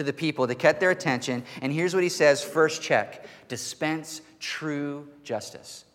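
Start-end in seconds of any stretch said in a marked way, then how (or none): 3.5-5.8 hushed command. Acted. Quoting the command again.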